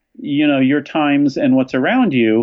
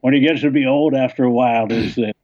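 put-on old man voice. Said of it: "I'm gonna put on old man, old man voice".

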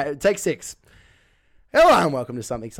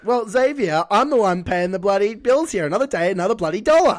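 mock bossy rant; 5 semitones higher, 4 dB louder than usual. Mock boss berating employee.

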